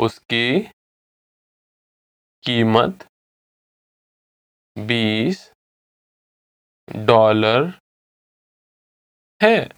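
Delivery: word by word, long silences between; slow repeat. Shown as a demonstration. Teacher models the twenty dollar answer, slowly. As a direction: say each word separately and slowly. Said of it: "I'll say it again slowly".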